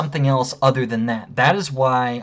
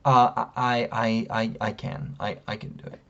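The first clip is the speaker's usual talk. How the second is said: soft, low stammer fading to near-whisper; retold hesitant offer; 3 semitones lower, 6 dB quieter than usual. Woman employee offering to defuse things, quiet and hesitant. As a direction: imitate someone meekly volunteering, trailing away.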